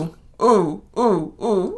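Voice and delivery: eager pupil begging to be picked; acted eagerness. The speaker begging the host to pick her, mock-eager. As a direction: pipe up in comic, bursting impatience.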